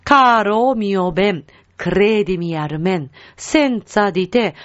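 "カロミオベン、 クレディミアルメン、 センツァディテ" in connected phrases, long stressed vowels; Italian lyric model. Shown as a demonstration. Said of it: "というふうになります".

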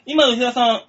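detective voice. Acted. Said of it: "探偵風なのかな".

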